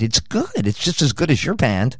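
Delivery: a hint of the young grandson. Grandson voiced again.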